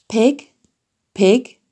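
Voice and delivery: gently coaxing farmer; kind voice. A narrator's reading. Farmer luring Wilbur home, kind coaxing call. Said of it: "in a kind voice".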